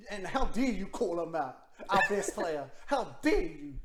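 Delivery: indignant sports rant, leaning hard on key words; loud, mildly outraged reproach; getting mad. Real, not acted. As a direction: scold an absent coach, half in fun. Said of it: "I'm getting mad".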